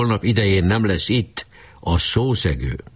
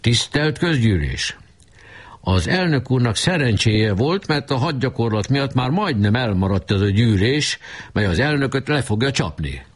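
pompous orator; 7 semitones higher than usual. Acted. Barabás addressing the meeting, pompous and high. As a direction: declaim like a self-important speaker. Barabás orating against the president.

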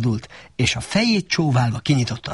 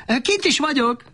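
higher donkey call from outside; light donkey reply; 13 semitones higher than usual. A narrator's reading. Donkey answers Shrek from outside.

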